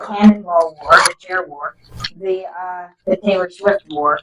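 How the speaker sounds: loud, proud listing; shouting. Real, not acted. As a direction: call the names out loud. Shouting out war names.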